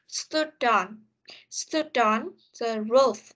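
"stood on" run together, D carried into "on"; linked sounds. Shown as a demonstration. Teacher models linking sounds for learners, "stood on" joined. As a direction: link "stood" straight into "on". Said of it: "khá là nhiều cái linking sound".

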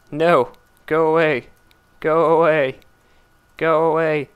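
loud, fed-up go away; yelling. Real, not acted. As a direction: shout it at the monster. Yelling at enemy repeatedly.

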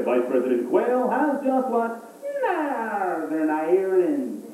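put-on newscaster hamming up an Irish accent, slow; mock Irish accent. Broadcaster announcing the Irish news, hammed-up Irish accent. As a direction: lay on a thick Irish brogue. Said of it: "You never see a broadcaster get up there".

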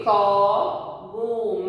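"Cogumelo" slowly sounded out; slow, divided syllables on "Cogumelo". Shown as a demonstration. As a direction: stretch co-gu-me-lo for learners. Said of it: "separando em sílabas".

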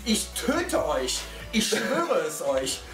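slow, dramatic mock threat. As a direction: threaten them slowly, half joking. Threatens friends over the smell.

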